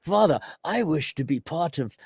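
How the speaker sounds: lightly voiced pleading to father; a hint of a whiny kid begging dad; mock pleading child. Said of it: "I'm saying, Oh my goodness".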